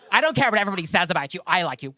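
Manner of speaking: lightly imitated coworker; quick backhanded reassurance, lightly mimicked; Brandy. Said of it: "She goes".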